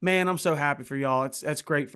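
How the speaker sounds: lightly imitated Southern accent. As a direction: congratulate them in a mild Southern accent. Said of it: "I'm gonna do a Southern accent".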